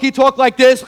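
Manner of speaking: put-on light New York accent; touch of New York coach talk. Describing Coach Sam from New York, light New York accent. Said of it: "he was from New York".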